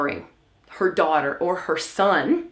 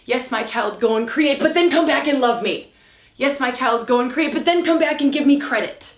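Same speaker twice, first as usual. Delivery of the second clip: needy mother; 3 semitones higher than usual. Retold or imitated. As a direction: play the mother who wants credit back, lightly. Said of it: "where does mama stand behind you going".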